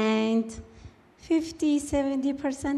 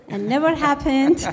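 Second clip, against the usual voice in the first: laughing; 4 semitones higher, 7 dB louder than usual. Real, not acted. Laughing about parents wanting boys.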